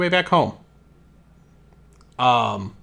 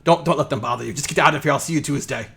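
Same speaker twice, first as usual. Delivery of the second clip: tag; faster than usual. Acted. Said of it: "and he says".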